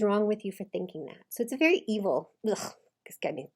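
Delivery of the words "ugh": low disgusted ugh; low shudder of revulsion; creeped-out groan. Real, not acted. Coach reacting to husband's mockery, creeped-out groan. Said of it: "gives me the creeps".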